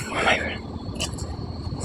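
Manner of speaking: breathless, drawn-out whisper of effort; exhausted whisper. Real, not acted. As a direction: gasp it out, spent from the lift. After carrying a heavy log.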